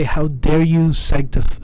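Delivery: slow, outraged how dare you; mock fury, dragging it out; shaking with anger. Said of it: "I'm only doing this as a meme".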